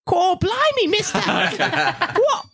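put-on very high, excited kid voice; squeaky little boy, thrilled; high cheeky child voice. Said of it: "he looks up at you and he goes".

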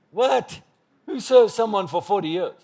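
high-pitched incredulous question; mock astonishment. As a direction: act taken aback, pitch jumping up. Mock astonishment at forty years' service.

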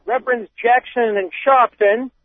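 put-on reading a quote in a light Boston accent; hint of a wicked Boston accent. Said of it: "break out my wicked Boston accent".

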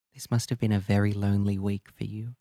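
hushed compassionate therapist; gentle whisper. Acted. Therapist comforting crying client.

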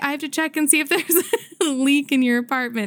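a light, high impression of the maintenance guy; high mock voice of the maintenance man. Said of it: "I'm not gonna do his Mexican accent".

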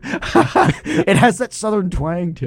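a hint of a slow Southern drawl; quoting the Key and Peele country skit, Southern twang. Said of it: "Key and Peele skit".

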